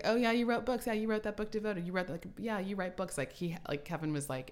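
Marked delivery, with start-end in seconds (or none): 0.0-3.2 put-on high, offhand dismissive kid voice; mock nonchalant child; unimpressed son. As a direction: shrug it off like a bored kid. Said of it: "Elliot's like".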